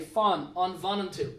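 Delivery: fan, on vanantu said slowly and clearly; slow dictation. Shown as a demonstration. Teacher reads the answer to students, slow dictation. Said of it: "Third one, to wait or to stay".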